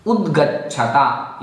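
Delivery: उद्गच्छता slowly, with a stopped द् before a full ग; careful pronunciation. Shown as a demonstration. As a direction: demonstrate उद्गच्छता part by part. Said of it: "उसका उच्चारण करके आपको दर्शाते हैं". (उद्गच्छता का धीमा, स्पष्ट उच्चारण, द् हलंत और ग पूर्ण)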